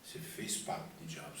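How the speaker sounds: low, hushed inner voice; voice in the ear. Retold or imitated. The voice confronts him about the pact, low and hushed. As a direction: speak softly, like a voice at someone's ear. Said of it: "vem aquela voz no meu ouvido".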